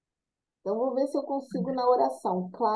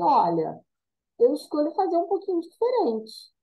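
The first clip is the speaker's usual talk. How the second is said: resolute voice; 4 semitones higher than usual. Retold or imitated. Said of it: "ela fala assim".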